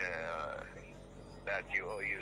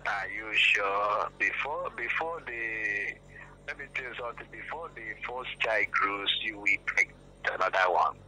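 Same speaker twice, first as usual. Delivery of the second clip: stern lecture; 8 dB louder than usual. Real, not acted. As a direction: lecture him sternly and loud. Lecturing angrily on phone.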